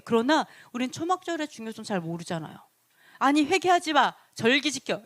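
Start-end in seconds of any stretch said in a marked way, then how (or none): 3.2-5.0 commanding quote. Retold or imitated. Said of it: "이런 얘기 들어봤어요".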